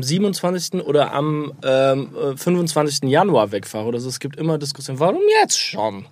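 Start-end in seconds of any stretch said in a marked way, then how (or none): 5.0-6.1 high mock plea of his mother; mock mother protesting. Son imitating his mother as she protests his departure. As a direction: play the mother whining why he's leaving already.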